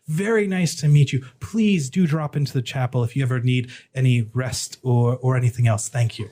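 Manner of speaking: lightly voiced, over-polite cleric; polite dwarf cleric. Cleric inviting a visitor to the chapel, politely effusive. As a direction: hurry out a courteous farewell in character.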